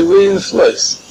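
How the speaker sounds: mild mock outcry. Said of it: "pounding on the table and say".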